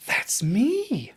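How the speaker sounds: breathless whisper of recognition; shocked whisper. Retold or imitated. Speaker hearing his old voicemail, stunned whisper.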